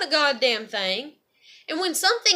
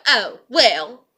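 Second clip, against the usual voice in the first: mocking shrug, pushed harder; 4 semitones lower, 7 dB louder than usual. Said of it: "y'all be like".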